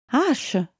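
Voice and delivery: shout. A narrator's reading. Hera runs toward Ash, shouting his name. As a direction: call his name as you run toward him. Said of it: "gridò Hera andandogli incontro".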